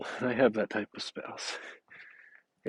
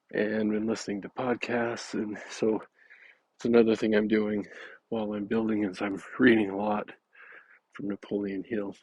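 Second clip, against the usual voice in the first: breathless from walking uphill; short of breath, panting between phrases. Real, not acted. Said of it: "Sorry, I'm out of breath".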